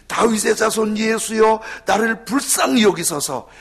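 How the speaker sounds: loud pleading cry for mercy; blind man's cry. Acted. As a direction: cry out desperately to Jesus, loud. 맹인의 외침을 재연. (맹인이 예수께 간절히 외치는 소리)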